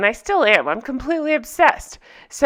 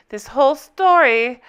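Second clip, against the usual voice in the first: lightly put-on European accent; Anna's accent; 3 semitones higher than usual. Recapper starting to quote the heroine, light mock accent. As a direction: begin the quote in a mild mock-German accent. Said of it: "gonna do that accent a lot".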